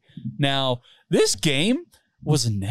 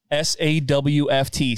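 each letter said slowly and separately; spelled out slowly; slower than usual. Shown as a demonstration. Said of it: "spelled out".

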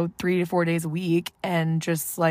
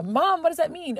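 much higher, a mock kid asking; child voice; 10 semitones higher than usual. Imagined kid asks mom what A C means, in a high child voice. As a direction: play an imagined kid, pitched way up.

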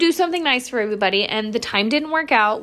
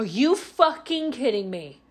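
disbelief in my head; slower than usual. Retold or imitated. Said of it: "Like, in my head".

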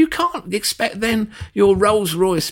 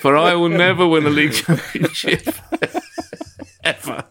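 mock Partey lament; 2 semitones lower than usual. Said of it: "I've made a grand error".

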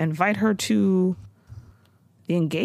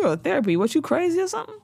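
higher, scoffing question; lightly voiced dismissive elder; mock old-school parent; 8 semitones higher, much faster than usual.

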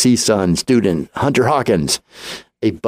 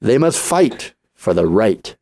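movie trailer voice. Acted. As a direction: announce it like an epic film trailer. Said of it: "I'm gonna do this in my best movie, movie voice".

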